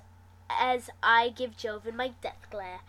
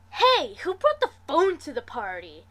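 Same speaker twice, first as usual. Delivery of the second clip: mild yell; 4 semitones higher, 6 dB louder than usual. A narrator's reading. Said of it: "Lasercorn practically yells in my ear".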